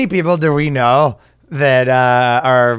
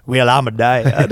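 put-on southern accent; 4 semitones lower than usual. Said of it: "my southern accent".

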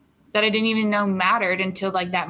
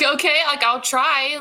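hesitant agreement; 6 semitones higher, 4 dB louder than usual. Retold or imitated. Retold reluctant reply to manager.

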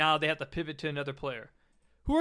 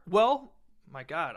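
cracked, breaking voice; voice cracking; 3 dB louder, slower than usual. Real, not acted. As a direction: voice cracks on the words. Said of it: "you guys hear my voice crack just now?".

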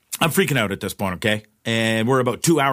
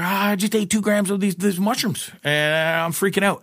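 mock panicked self; 8 semitones higher than usual. Retelling his panicked reply.

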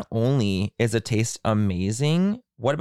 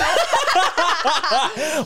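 loud, high real laugh; bursting out laughing at the accent joke; high burst of laughter; 4 dB louder than usual. Real, not acted. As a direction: crack up at your cohost. Cohost teased about accent.

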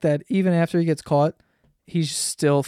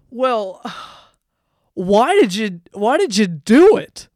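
baffled reporter; 4 semitones higher, 5 dB louder, slower than usual. Retold or imitated. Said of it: "the reporter goes".

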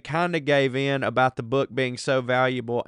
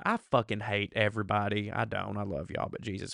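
low, soft muttered aside; quiet aside; 4 semitones lower, 7 dB quieter than usual. Real, not acted. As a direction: drop it to a private grumble. Muttered aside between repeated lines.

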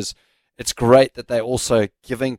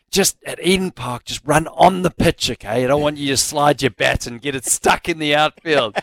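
imitating coach; 4 semitones higher than usual. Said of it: "And then Macca would go".

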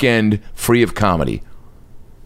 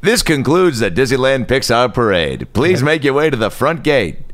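park announcer. Pretend.

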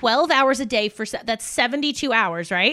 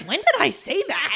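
laughing disbelief; 5 semitones higher than usual. Retold or imitated. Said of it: "I'm like".

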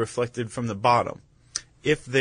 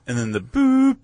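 high boop; 12 semitones higher, 4 dB louder than usual. Shown as a demonstration. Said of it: "An off-key trough".

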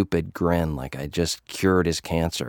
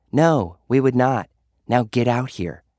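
curt order; 6 semitones higher than usual. Acted. Sweets ordering him.

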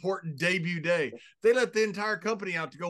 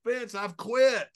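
slow, higher-pitched mock protest; comic pleading, raised and slow; exasperated retold plea; 5 semitones higher, slower than usual. Retells Bruce's exasperated protest to Vince.

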